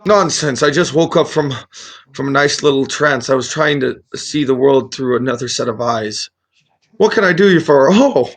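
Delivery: lightly voiced dotty old wizard; loopy friendly wizard. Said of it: "a little loopy friendly".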